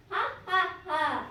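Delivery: spelled-out "ha, ha, ha"; deliberate, pretend laughing; mock laugh. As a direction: read out a storybook laugh in separate beats. Sheru laughs at fooled men.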